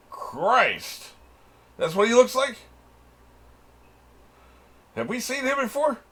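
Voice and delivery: can't believe how he looks; shocked disbelief. Real, not acted. Shocked by character's look.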